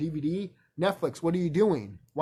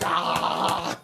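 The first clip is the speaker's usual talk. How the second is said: breathy voiceless roar; mock roar; 4 dB louder than usual. Scaring the wicked ones off, a breathy mock roar. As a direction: huff out a silent ape roar. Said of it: "just go like".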